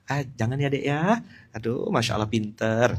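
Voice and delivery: soft, sugary gentle scolding; sweet patient mother. Retold or imitated. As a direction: coo at the neighbour's child. Mother sweetly scolding neighbour's child.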